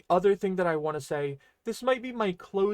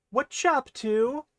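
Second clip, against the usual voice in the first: casual; 8 semitones higher, 5 dB louder than usual. Shown as a demonstration. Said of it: "That carries more of a vibe of".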